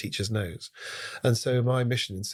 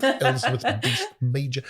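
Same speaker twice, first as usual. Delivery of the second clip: lightly voiced headmaster reading the register; a hint of a stern headmaster calling names; headmaster roll call; 2 semitones higher, 4 dB louder, slower than usual. Schoolboy doing the headmaster routine, lightly voiced roll call. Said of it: "I would do the headmaster routine".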